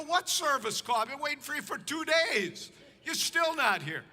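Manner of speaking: indignant comeback, a touch exaggerated; retold indignant protest. Preacher retelling his reply to the late locksmith, indignant. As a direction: push back at the locksmith in mild outrage.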